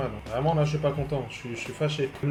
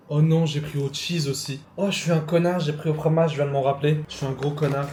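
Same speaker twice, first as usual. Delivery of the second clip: loud self-reproach; 2 semitones higher, 6 dB louder than usual. Real, not acted. He ordered cheese again by mistake.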